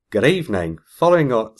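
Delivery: lightly attempted Australian accent; half-hearted Australian, could pass for New Zealand; botched Australian accent. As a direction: read it in a shaky stab at Australian. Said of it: "I wasn't gonna do an Australian accent".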